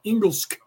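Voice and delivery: "Engelsk" with a hard g and closing sk; Swedish word for English. Shown as a demonstration. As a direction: say "Engelsk" as Swedes do. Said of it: "Swedes call it".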